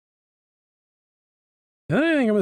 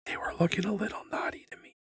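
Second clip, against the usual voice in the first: whisper; 4 semitones higher, 10 dB quieter, faster than usual. Real, not acted. Whispered aside while drawing.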